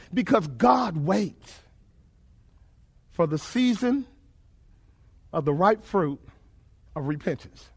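low words with long pauses; solemn, measured answer. Real, not acted. Preacher solemnly answers his own question.

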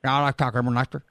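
Southern twang caller. Retold or imitated. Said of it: "now got the twang".

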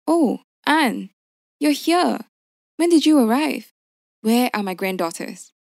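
high, bright-pitched happy surprise; delighted greeting. A narrator's reading. Mother surprised to see her daughter, delighted high greeting.

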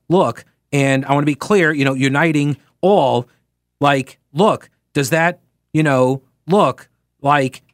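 stumbling press secretary voice, lightly done; Karine Jean-Pierre impression. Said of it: "read every message as if I'm Karine Jean-Pierre".

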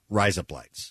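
"rise up lights" with "up" thrown away. Shown as a demonstration. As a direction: stress "rise", swallow "up". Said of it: "the emphasis less on up".

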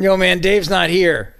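slow stoner impression; Cheech and Chong. Host quoting a stoner comedy, slow and spaced-out. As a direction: drag it out like a stoned buddy. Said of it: "like watching a Cheech and Chong movie".

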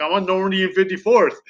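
high-pitched mock insistence; retold insistent answer. Caller giving dispatch his location, insistent.

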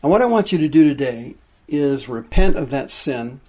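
urgent pulpit appeal to repent; preaching. Acted. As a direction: press the point home to the congregation. Preacher pressing the congregation.

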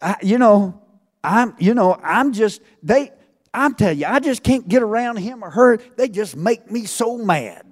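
mock flustered churchgoer, stammering; flustered complaint. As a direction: play a flustered churchgoer who can't find the words. Acts out a flustered, angry churchgoer.

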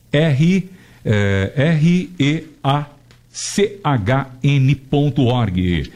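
slow letter by letter spelling. Shown as a demonstration. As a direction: dictate each letter slowly for listeners.

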